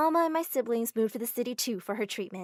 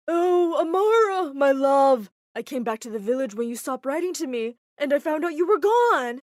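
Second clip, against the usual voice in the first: gushing fiancé; 4 semitones higher, 10 dB louder than usual. Acted.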